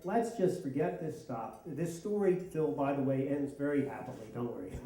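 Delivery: put-on softening, lowering voice to calm kids; gentle retold reassurance; reassuring parent. Dad tries to soothe children.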